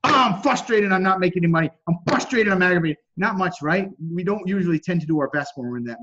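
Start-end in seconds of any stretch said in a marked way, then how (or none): 0.0-3.0 mock frustrated whine. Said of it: "when they're pissed off".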